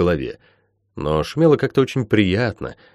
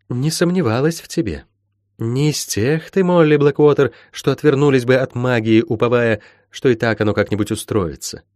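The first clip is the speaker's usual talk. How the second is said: lightly voiced mentor, lilting and emphatic; stern encouraging healer; 3 semitones higher than usual. Healer urging Molly to bridle her power, stern encouragement. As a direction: coax and instruct, lightly in character.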